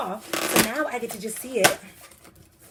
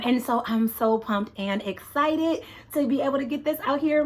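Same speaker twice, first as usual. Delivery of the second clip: ordinary talk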